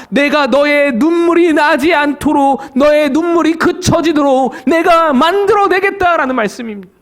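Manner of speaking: ordinary delivery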